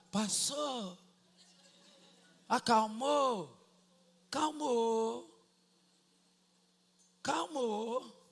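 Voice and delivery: slow, softened, drawn-out settling; soothed calm. Retold or imitated. Father calmed by his daughter's touch, softly and slowly. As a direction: let the anger melt away gently.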